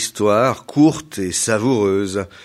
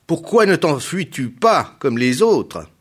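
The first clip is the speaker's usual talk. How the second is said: monster crying out; 6 semitones higher, 3 dB louder than usual. A narrator's reading. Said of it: "le monstre s'écria".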